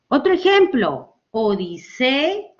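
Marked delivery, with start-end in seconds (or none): 1.3-2.5 "odisea" drawn out slowly, E apart from A; slow "odisea" down, splitting the final A off; separated syllables. Shown as a demonstration. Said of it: "A, separadas".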